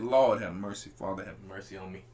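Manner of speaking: low, pleading moan to the Lord; pleading prayer. Retold or imitated. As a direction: beg for mercy, head down. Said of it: "this how the black man say".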